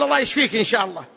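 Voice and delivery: quick, casual get-well wish; noncommittal prayer. Shown as a demonstration. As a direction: rattle off the wish without resolve. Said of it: "لا تستثني". (دعاء سريع بلا عزم)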